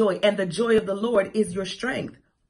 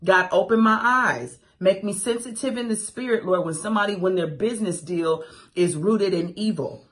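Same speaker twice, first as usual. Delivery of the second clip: prayer. Retold or imitated.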